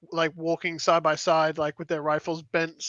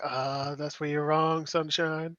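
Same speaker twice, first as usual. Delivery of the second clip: smug comeback; 2 semitones lower, 6 dB quieter, much slower than usual. Acted. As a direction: gloat quietly, savouring it.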